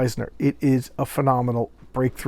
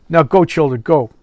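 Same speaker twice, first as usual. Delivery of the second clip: raised voice, firm send-off; shooing children away; 2 semitones higher, 7 dB louder than usual. Acted. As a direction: call out to send the kids off. Rabbi sends the children away.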